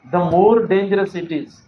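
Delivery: slow, careful reading of the fix; slow clear model sentence; corrected version read slowly. Shown as a demonstration. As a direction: lay out the right word order slowly for students. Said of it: "होना ये चाहिए".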